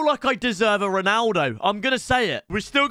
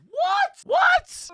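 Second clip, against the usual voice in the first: shocked what. Real, not acted. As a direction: jump in shock. Shocked at pack result.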